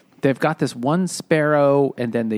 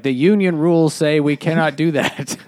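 mock union official, pitched up; labor union shrews; 4 semitones higher, 4 dB louder than usual. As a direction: recite the rule like an intense unionist. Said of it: "intense labor union shrews".

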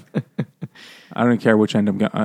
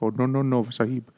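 mock Indian accent; 6 dB quieter than usual. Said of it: "Stephen Fry does the voice".

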